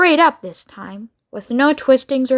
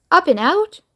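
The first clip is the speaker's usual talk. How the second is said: rising, puzzled "Up and out?"; a higher, questioning "Up and out?"; 6 semitones higher than usual. Acted. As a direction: Charlie wondering aloud at "Up and out?". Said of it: "thought Charlie".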